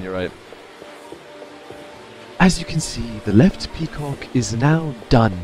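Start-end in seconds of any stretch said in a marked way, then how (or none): 2.4-5.3 hushed nature documentary. Pretend. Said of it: "he sounds like a documentarian".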